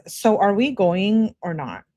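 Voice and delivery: slow, pointed question, stretched on "going or not"; drawn-out, emphatic reading of a many-question-mark text; insistent questioning. Retold or imitated. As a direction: press the question "So are we going or not?" slowly. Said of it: "With a bunch of question marks".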